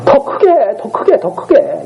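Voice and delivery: acted jeer, repeated like a goading chant; teasing taunt. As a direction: egg them on mockingly. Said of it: "이러면서 계속 놀리는 거죠".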